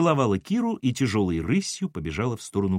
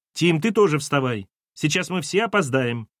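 higher-pitched hurried call; 4 semitones higher than usual. Acted. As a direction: rouse the household from another room. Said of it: "прокричала откуда-то Кира".

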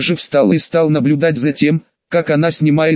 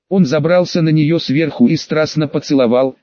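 ordinary delivery

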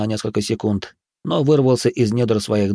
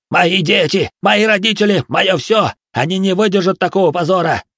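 high, loud despairing yell; 10 semitones higher, 5 dB louder than usual. Acted. Пузан shouts at Jen about the shame, loud and high. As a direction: howl it as if the family's honour is lost. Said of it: "Пузан заорал".

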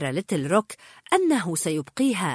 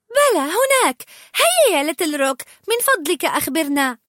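high, loud insistent begging; Anna pressing the troll to tell; eager pleading; 8 semitones higher, 5 dB louder than usual. Acted. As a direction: urge him on excitedly. Anna begs Little Rock.

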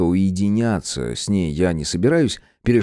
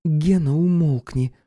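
much higher, curt dismissal; voiced woman Irka; 8 semitones higher, slower than usual. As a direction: toss it off without looking. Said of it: "бросила Ирка".

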